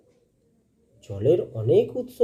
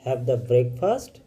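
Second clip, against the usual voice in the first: slow, careful read-aloud for the class; slow dialogue reading; much slower than usual. Acted. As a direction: read each line slowly for pupils to follow. Teacher reads textbook dialogue slowly. (ধীরে ধীরে পাঠ্যবইয়ের সংলাপ পড়া)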